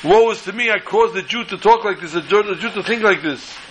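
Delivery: high-pitched retold cry of woe; mild wailing lament. Rabbi relentless in bed over his fault, mock wailing. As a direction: lament in a rush of self-blame, mildly acted. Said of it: "He's crying, and he's screaming, and he's yelling".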